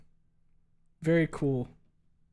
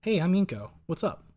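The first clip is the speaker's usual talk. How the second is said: higher, louder bright character voice; Inko voice; 6 semitones higher, 6 dB louder than usual. Shown as a demonstration. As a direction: pop it up high and loud. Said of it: "Inko is more just like this".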